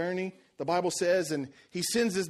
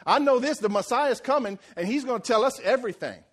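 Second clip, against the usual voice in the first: louder and higher, know-it-all retort; one-upping; 4 semitones higher, 4 dB louder than usual. Retold or imitated. Woman one-upping Jesus at the well, smug and louder. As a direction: toss it back like she knows better. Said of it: "Kinda like she was trying to one-up Jesus".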